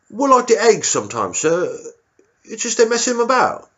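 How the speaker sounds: high, timid squaddie voice; a nervous young private answering his officer; meek soldier squeaking up to the colonel. Retold or imitated.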